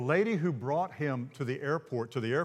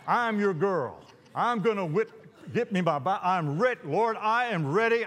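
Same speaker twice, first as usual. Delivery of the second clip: higher, eager acted voice; mildly hammed-up readiness; eager volunteering; 4 semitones higher, 3 dB louder than usual. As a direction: play an over-keen volunteer. Acts out eager volunteering to God.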